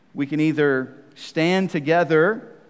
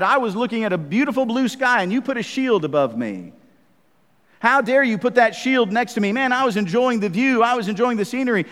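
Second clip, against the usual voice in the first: higher-pitched, hammed-up indignation; mock indignant soldier; 5 semitones higher, 3 dB louder than usual. Soldier scolding the comrade whose shield blocked his view, mock indignant. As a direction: play the offended soldier, voice pitched up. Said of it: "and I get mad".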